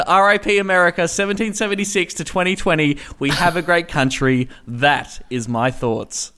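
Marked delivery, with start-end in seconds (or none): 3.2-6.3 slow, sinking Trump line as an epitaph; mock epitaph. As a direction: read it like a gravestone, slowly. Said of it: "Write it on the tombstone".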